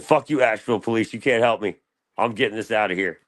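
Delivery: mock-indignant telling-off; defiant. Retelling his row with police on the phone, defiant.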